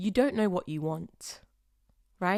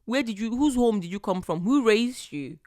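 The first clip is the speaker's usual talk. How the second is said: scolding mom. Retold or imitated. Quoting her mom scolding a rude, badly raised girl, mock-stern. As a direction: imitate mom scolding someone with no manners. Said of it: "As my mom would say".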